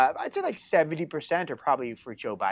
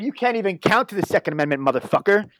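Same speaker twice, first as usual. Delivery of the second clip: raised, forceful insult in retelling; mock-angry comeback, pitched up; retold yelled comeback; 3 semitones higher, 4 dB louder than usual. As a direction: re-enact a heated phone retort. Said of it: "you yell at somebody like that".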